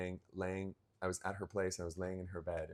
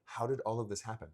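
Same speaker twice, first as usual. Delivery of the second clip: retold mind-blown wonder; 3 semitones higher than usual. Retold overwhelmed wonder after life-changing call.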